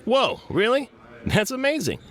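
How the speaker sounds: hammed-up high gasp of amazement; surprised. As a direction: overplay the wow for the ad. Scripted ad surprise.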